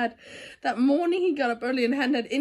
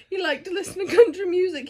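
laughing while reading; 4 semitones higher, faster than usual. Real, not acted. Reading through giggles.

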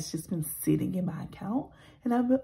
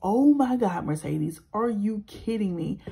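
self-exasperation; 5 dB louder than usual. Retold or imitated. Vlogger scolding herself by name after the shipping store, loud disbelief. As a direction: berate yourself by name. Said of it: "I was just like".

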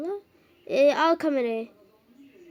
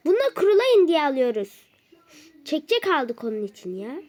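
scolding; 3 semitones higher, 4 dB louder than usual. Real, not acted. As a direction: tell them off for the wet floor. Wife scolds family about wet floor.

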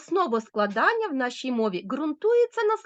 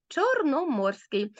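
slow answer word; 3 semitones higher, slower than usual. Shown as a demonstration. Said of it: "Правильно".

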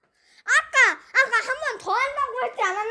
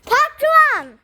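shouting orders; 4 dB louder than usual. Pretend. Mock drill instructor yelling.

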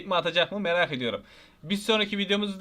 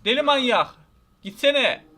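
higher, louder exasperated shout; annoyed yelling; 5 semitones higher, 5 dB louder than usual. Real, not acted. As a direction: snap at the pest. Enemy won't leave. (sinirli bağırış)

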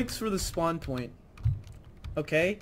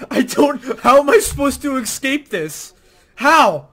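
raised, high-pitched protest; loud exasperated yell; exasperated outburst; 5 semitones higher, 9 dB louder than usual. Real, not acted. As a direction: demand an answer, loudly, at the game. Player protesting after dying.

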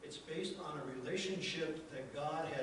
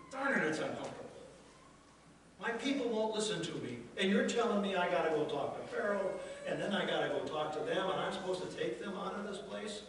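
louder, fed-up grumbling; exasperated complaint; 3 semitones higher, 4 dB louder than usual. Retold or imitated. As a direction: vent like an overwhelmed leader. Moses complaining to God.

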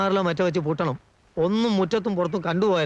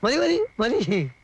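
drawn-out stop; 5 semitones higher, much slower than usual. Acted. Stops someone, drawn out.

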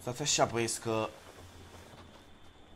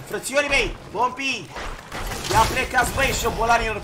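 raised, louder taunt at opponents; taunting call; 3 semitones higher, 4 dB louder than usual. Real, not acted. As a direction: shoo the attackers off loudly. Taunts attackers in game. (strigăt de provocare către adversari)

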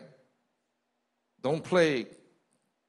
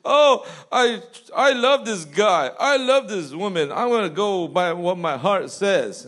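lightly voiced gushing lover, higher and louder; mock lovestruck; 5 semitones higher, 5 dB louder than usual. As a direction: parody someone swooning over a crush. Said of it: "People say".

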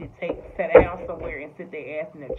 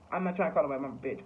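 normal talking voice

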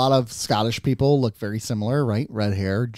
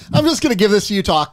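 laughing mock quote; 5 semitones higher, 4 dB louder than usual. Mocking a friend laughing.

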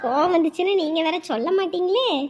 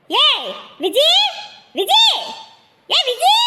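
calling out; 5 semitones higher, slower than usual. Acted. Calling out to Viji.

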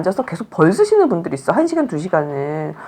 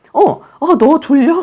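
put-on high, louder baby-directed question; perky noticing; 8 semitones higher, 5 dB louder, slower than usual. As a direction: act out a mother suddenly noticing her sleepy baby. 졸린 아기를 보는 엄마 연기.

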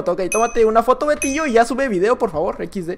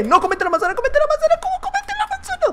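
squeaky voice; 3 dB quieter than usual. Pretend. Squealing at game player.

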